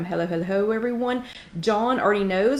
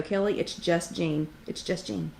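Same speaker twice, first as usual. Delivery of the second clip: muttered self-reminder; 6 dB quieter, slower than usual. Pretend. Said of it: "I'm gonna try and just go".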